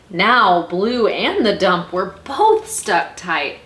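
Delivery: emphatic, animated storytelling; story narration. A narrator's reading. Librarian reads how Blue tried to help, dramatic narration. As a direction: play up each bump and push.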